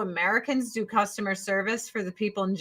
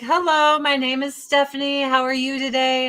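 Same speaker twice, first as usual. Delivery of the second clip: lightly voiced, higher-pitched phone agent; customer service rep; 4 semitones higher than usual. Customer service agent greets a caller, imitated higher-pitched rep voice.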